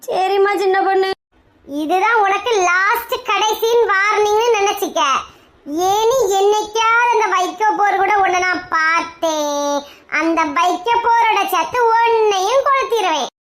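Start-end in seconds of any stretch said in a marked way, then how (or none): 1.7-13.3 slow, drawn-out threat; stern warning. Acted. Wife giving husband a last warning, stern and slow. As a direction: warn slowly, weighing each phrase.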